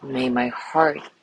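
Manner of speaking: calm, measured voice with long pauses; guided meditation. Acted. Teacher guiding listeners through a loving kindness body scan, calm meditation voice. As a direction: lead them gently through each phrase, leaving space after it.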